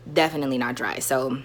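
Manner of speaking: talking while crunching chips; words around a mouthful of chips; eating chips. Real, not acted. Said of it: "sorry, I was eating chips".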